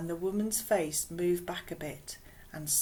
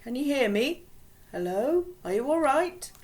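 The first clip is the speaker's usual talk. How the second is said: put-on higher, louder worried boy's voice; anxious calling; 7 semitones higher, 6 dB louder than usual. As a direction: call out urgently to wake her. Boy calling to unconscious girl.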